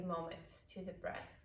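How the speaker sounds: calm, unhurried yoga guidance with long pauses; guided meditation. Real, not acted. Yoga teacher settling the class into breathwork, calm guided meditation. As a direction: ease them into noticing the breath.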